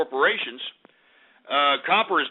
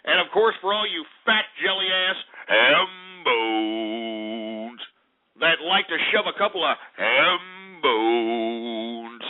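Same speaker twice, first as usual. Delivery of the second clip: mock blubbering insult; 3 semitones lower, slower than usual. Mock insult to hog eaters.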